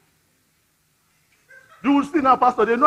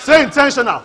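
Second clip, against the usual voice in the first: louder call; 2 semitones higher, 5 dB louder than usual. Shown as a demonstration.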